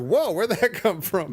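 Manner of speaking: high, drawn-out mock astonishment; amazed reaction. Film fan reacting to a sudden camera trick, amazed. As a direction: marvel at it, stretching the words upward.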